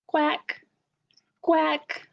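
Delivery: duck quack. Shown as a demonstration. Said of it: "All I know is ducks go".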